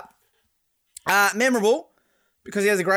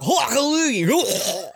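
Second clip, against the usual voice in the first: hawking throat sound; much slower than usual. Shown as a demonstration. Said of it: "what's that thing when you hawk a loogie".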